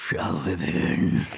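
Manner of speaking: put-on gravelly voice. Repeating a line from the show after praising its delivery: imitating a gravelly voice. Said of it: "The voice is so gravelly".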